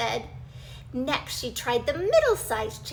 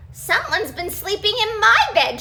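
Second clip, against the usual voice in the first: surprised; 7 semitones higher, 7 dB louder than usual. Acted. Mommy Bear voiced.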